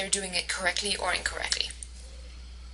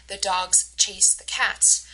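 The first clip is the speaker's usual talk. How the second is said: DOGS, CHASE, CATS slow and stressed; "the" kept light between stressed "dogs", "chase", "cats"; unstressed function words; slower than usual. Shown as a demonstration. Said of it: "part of the sentence that is not stressed".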